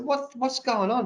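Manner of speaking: reliving the shock of seeing her cry; retold alarm. Retold alarm at wife crying.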